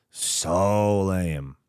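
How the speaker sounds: "So" long drawn out and low; stress on So. Real, not acted. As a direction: stretch "So", then drop on "lame". Repeats verdict with drawn-out emphasis.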